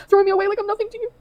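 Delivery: high-pitched tearful voice; real crying. Real, not acted. Reading out partner's hurtful message, crying. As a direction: read it through real tears.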